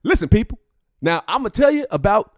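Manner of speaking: high, loud comedian holding forth; exaggerated stand-up impression; Kevin Hart. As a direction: address the crowd in a high hyped-up shout. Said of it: "Kevin Hart impression".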